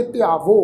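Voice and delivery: ਧਿਆਵੋ ending in a clean, un-nasal o; pure o ending. Shown as a demonstration. Teacher models second-person verb, ਧਿਆਵੋ with plain o. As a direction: close ਧਿਆਵੋ on a round o. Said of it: "ਇਹਦਾ ਉਚਾਰਨ ਕਰਾਂਗੇ".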